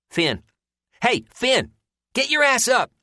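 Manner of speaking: rousing a sleeper across the room; calling out. Acted. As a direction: bellow him awake. Moss waking a sleeping man.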